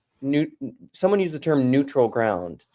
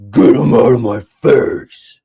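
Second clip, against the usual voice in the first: slow, loud bratty demand; kids' voice; 11 dB louder, slower than usual. Retold or imitated. Dad imitating kids rejecting pancakes, slow and loud. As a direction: stretch it out like a stroppy kid. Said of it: "my kids would just be like".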